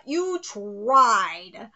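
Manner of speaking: a breathless whispered "You tried"; taunting whisper. Real, not acted. Mocking the character who backfired, in a whisper. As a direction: hiss the taunt under your breath.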